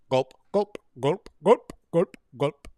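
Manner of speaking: cartoon "gulp", working from the L to the P; drawn L in gulp. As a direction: punch each "gulp", landing late on the P. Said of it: "me getting from the L to the P on gulp".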